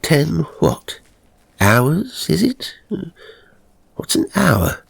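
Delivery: wondering aloud, bemused and curious; newly dead gentleman musing. Acted. A dead man puzzling over time to himself, lightly bemused.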